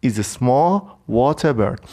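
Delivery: slow, small stressed with a falling tune; teacher repeats the definition. Shown as a demonstration. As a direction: repeat the phrase for learners.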